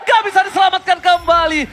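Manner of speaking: high, loud, fast hyped call; esports caster. Real, not acted. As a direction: rattle off the fight at full hype.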